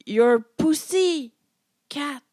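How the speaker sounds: loud, slow hammed-up lover voice; mock sultry growl. Quoting Ezra's best line to her co-host, mock sultry. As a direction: ham up the sexy line.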